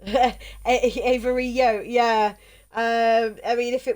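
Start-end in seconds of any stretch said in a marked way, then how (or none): 0.6-1.8 "Avery Yo" as av-a-REE-yo, with a y glide; "Avery Yo" ending in ee-yo; foreign-sounding pronunciation. Shown as a demonstration. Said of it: "sounds Italian".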